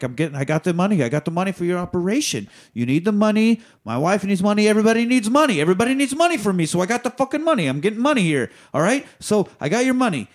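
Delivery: high, fast, rising frantic rant; frantic Sonny. Retold or imitated. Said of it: "he is like".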